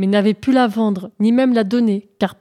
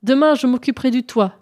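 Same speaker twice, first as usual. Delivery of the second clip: mock shout to the genie; 3 semitones higher, 4 dB louder than usual. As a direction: call out to the unseen genie. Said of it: "hurla-t-il". (crie bien fort au bon génie, sans vrai hurlement)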